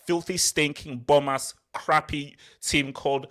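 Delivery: punchy taunting rant that settles as it goes; aggressive abuse. Real, not acted. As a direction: pile up the insults deliberately. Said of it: "very aggressive abuse towards you".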